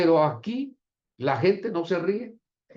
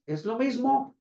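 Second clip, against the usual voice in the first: high, rising mock conclusion; pitched-up imitation of a smug objector; triumphant retort; 9 semitones higher than usual. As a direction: imitate an arguer crowing that he is right. Quotes arguer triumphantly claiming proof.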